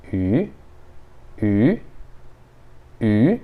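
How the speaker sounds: ü said with pursed, rounded lips; rounded ü demo. Shown as a demonstration. Teacher showing students a rounded vowel, lips pursed. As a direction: push the lips out for ü. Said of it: "faz o biquinho e fala ü".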